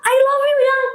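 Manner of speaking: very high, stretched slow call; retold shout. Wife shouting to unconscious husband, retold high drawn-out cry. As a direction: call out to revive a loved one, re-enacted. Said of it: "Saya teriakin".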